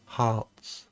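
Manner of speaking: slow, soft mock Diana; a lightly voiced Diana quote; hint of a wistful princess; imitating Diana. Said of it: "on Diana going".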